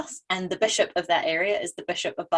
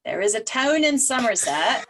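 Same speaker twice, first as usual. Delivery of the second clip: put-on West Country accent; slower than usual. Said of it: "say all this in a West Country accent".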